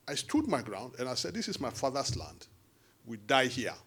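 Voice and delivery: mild imitation of a defiant politician; imitating Jagaban. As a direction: quietly mimic his defiant line. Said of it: "That's how he talks".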